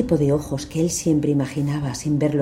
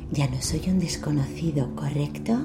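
giggly sinister sing-song; 5 dB quieter than usual. Acted. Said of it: "Soy Pennywise, el payaso".

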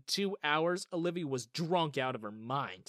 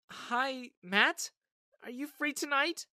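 put-on higher, bright young woman's voice; Olivia's voice; 10 semitones higher, slower than usual. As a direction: voice the friend calling, lifted up high.

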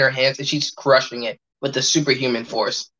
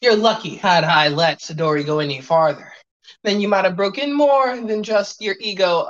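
haughty maid voice; 2 semitones higher than usual. Acted. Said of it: "Maid to Order goes".

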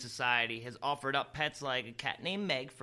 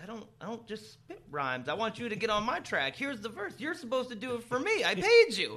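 indignant rapper; 6 semitones higher than usual. Retold or imitated. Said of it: "He's like".

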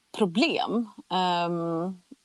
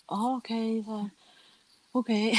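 mildly dazed, faint acknowledgement; retold grogginess; 3 semitones higher, 3 dB quieter than usual. Groggy patient answers surgeon after the operation, dazed. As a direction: agree as if only half awake. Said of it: "Du är helt groggy".

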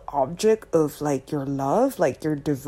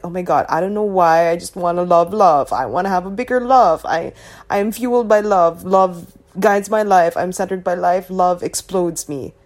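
slightly louder, quicker lovestruck gushing; gushing devotee; 4 dB louder than usual. Acted. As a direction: gush about love like a devotee, lightly acted. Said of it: "If your friends talk like that".

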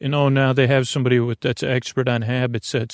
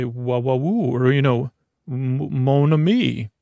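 fake European. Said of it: "fake European and kiss both your shoulders".

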